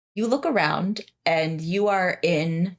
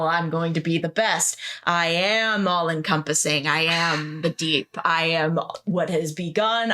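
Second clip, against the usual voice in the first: growing inner voice. Acted. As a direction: let the thoughts build into a grand decree. Overwhelming inner voice of ambition.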